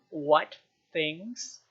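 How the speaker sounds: a witch insisting on an answer. Acted. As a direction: bark the question this time. Granny presses again, harder.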